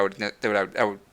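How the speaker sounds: rushed, stumbling tongue-tied words. Real, not acted. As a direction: trip over the words in a tongue-tied rush. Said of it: "I'm getting tongue-tied".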